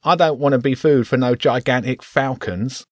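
squeaky rat; a nervous little rat. Acted. Rat character voice.

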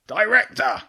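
old badger roaring for help from the pond; roared call. A narrator's reading. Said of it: "the king roared from the pond".

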